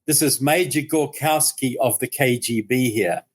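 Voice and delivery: lightly imitated Russian accent. KGB major phones the bakery, imitated Russian accent. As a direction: retell it as a KGB officer, with a hint of Russian. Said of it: "in a Russian accent".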